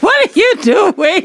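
high, incredulous cry through laughter; cracking up while replaying total bafflement; laughing disbelief. Laughing as she replays her disbelief.

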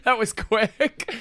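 laughing. Real, not acted. Laughing at losing the thread.

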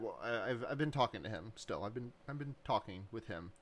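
soft, halting, hushed answer; quiet hesitant reply. Retold or imitated. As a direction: murmur it, stumbling over words. Voss quietly answering her handler.

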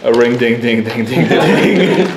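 laughing mock deer noises; joking deer impression, ding ding; deer grunts. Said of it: "Do your best deer impression".

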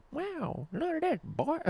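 put-on very high, soft, wide-eyed kid voice; awed kid voice. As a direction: gasp it like an awestruck child. Kid in Goosebumps scene.

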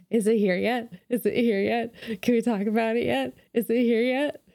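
imitating eager, impatient pestering, pitch climbing; bursting to talk. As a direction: pester like impatient kids who can't wait. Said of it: "bursting at the seams to talk about it".

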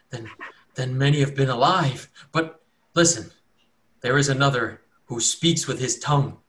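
he needs saving; pleading cultist. Acted. Cultist earnestly begging the cleric to cleanse him.

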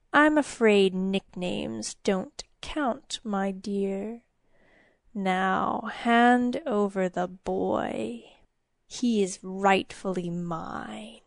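slow, soft gloating demon; menacing demon. Acted. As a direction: savour every word of the threat. Demon claims the child.

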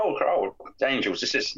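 lightly voiced Bane impression; a hint of a gruff villain. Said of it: "You went a bit Bane there".

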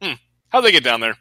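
mildly puzzled mock innocence; casual, acted obliviousness; feigned nonchalance. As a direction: play it as if nothing happened. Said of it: "He acted like it never happened".

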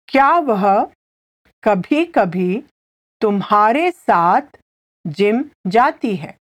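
phrase by phrase with clear pauses; slow repetition. Shown as a demonstration. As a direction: break the question up so a learner can follow. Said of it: "I'll say it again slowly".

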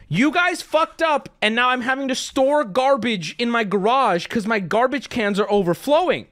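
exasperated, high-pitched scolding; losing it. Retold or imitated. Customer telling trash company off over overflowing cans, exasperated. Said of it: "I'm losing my fucking mind".

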